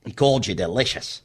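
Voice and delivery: a low, hushed husband whispering to his darling; mock Turnbull to wife.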